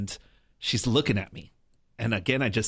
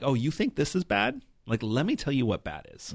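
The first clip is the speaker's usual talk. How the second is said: mock preachy retort; 5 semitones higher than usual. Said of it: "I wanted to pop off at her".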